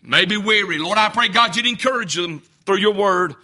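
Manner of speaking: low, earnest spoken prayer. Acted. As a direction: pastor praying over the congregation, low and earnest. Opening prayer before sermon.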